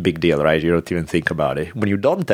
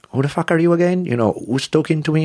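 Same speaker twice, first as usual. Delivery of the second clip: higher, half-asleep mock alarm; mock startled outrage; 10 semitones higher than usual. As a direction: retell waking up baffled. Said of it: "I'm like".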